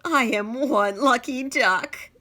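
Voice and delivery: high, loud, slow duck voice; gleeful duck voice. Acted. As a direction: crow it out like a delighted duck. Duck character speaks.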